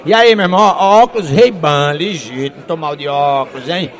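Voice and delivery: flaunt it, drawing out the prized items; cocky show-off. Acted. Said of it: "metido a besta".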